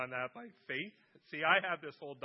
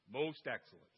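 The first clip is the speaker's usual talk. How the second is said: imitating dad; 3 semitones lower than usual. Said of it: "What would he say?".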